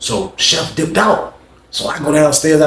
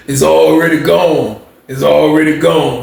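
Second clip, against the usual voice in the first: slow, laughing mockery; laughing taunt; slower than usual.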